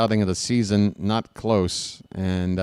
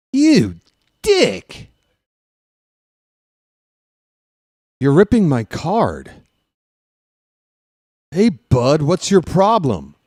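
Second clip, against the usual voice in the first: high, loud stoner surfer dude yelling; Jeff Spicoli impression; 5 semitones higher, 4 dB louder, slower than usual. Broadcaster doing Jeff Spicoli yelling at his teacher, high stoner voice. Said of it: "That was my Jeff Spicoli impression".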